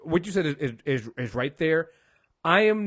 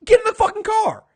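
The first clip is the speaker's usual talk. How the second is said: higher, louder mock shouting; mock yell; 10 semitones higher, 6 dB louder than usual. The speaker ordering Karen into the car, in a loud mock shout. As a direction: bark it like ordering someone into a getaway car.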